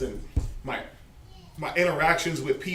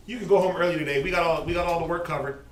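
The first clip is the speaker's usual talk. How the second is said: mock cheerful boss; 3 semitones higher, 5 dB louder, faster than usual.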